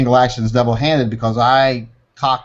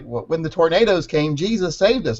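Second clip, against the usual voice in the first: higher, preachy sing-song; mocking pious voice; 5 semitones higher than usual. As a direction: parody a tornado survivor. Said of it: "I'm always like".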